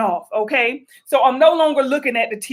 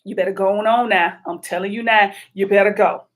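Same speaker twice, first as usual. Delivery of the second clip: stern command; 5 semitones lower than usual. Retold or imitated. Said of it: "So I say".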